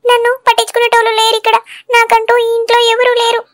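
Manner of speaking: acted weepy whine; tearful self-pity. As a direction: complain through tears, feeling uncared for. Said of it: "ఎందుకు ఏడుస్తున్నావు మల్లిక". (ఏడుపు గొంతుతో బాధగా చెప్పడం)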